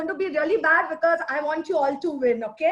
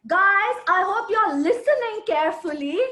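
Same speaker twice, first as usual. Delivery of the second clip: 1 firm alert call; 3 semitones higher, 3 dB louder than usual. Shown as a demonstration. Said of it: "you stress on important words".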